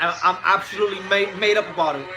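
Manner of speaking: attempted Liverpool Scouse accent. Shown as a demonstration. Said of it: "I work on my Scouts accent".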